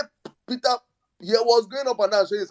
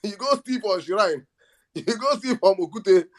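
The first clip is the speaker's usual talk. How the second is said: laughing; 4 semitones higher than usual. Real, not acted.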